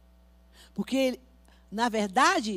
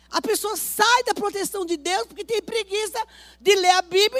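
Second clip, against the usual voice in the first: loud, driving sermon to the congregation; fiery preaching; 8 semitones higher, 11 dB louder than usual. Acted. Pastor warns the congregation, preaching loudly. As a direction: preach it hard, pressing each line home.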